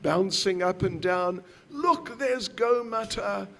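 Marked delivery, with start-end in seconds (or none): 1.7-3.5 higher, lightly excited distraction; coaxing a baby. Acted. Ladies trying tricks on crying Nimai, mildly excited coaxing. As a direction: point it out to soothe a crying child. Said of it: "they tried all their tricks".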